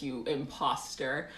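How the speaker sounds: usual speaking voice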